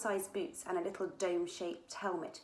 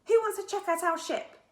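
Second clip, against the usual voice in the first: eager call; 12 semitones higher, 8 dB louder than usual. A narrator's reading. Eager girl calling to friends.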